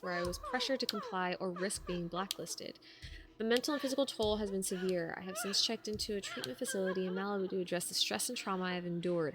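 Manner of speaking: formal letter read. Acted. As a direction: read it out like an official statement. Reads formal complaint letter.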